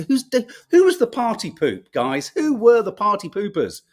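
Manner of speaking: lightly sarcastic demand to know; slightly sarcastic. Real, not acted. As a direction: ask with a touch of sarcastic outrage. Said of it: "I'm being slightly sarcastic".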